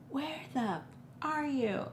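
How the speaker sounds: retold high-pitched angry demand; cussing mom. Mom cussing out her kid on the phone, high angry mimicry. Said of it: "she is cussing me out".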